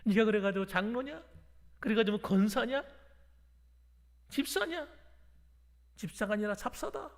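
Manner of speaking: lightly acted taunting questions; mildly jeering devil's taunt; mocking Satan. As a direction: sneer at the believer as Satan would, without shouting. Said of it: "사탄이 비웃는 거예요".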